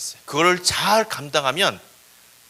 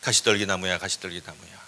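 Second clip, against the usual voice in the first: low, lightly voiced God figure; God entreating a bush; 9 semitones lower than usual. God calling the thornbush to beg a favour, low coaxing. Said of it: "가시떨기 나무한테 사정을 합니다".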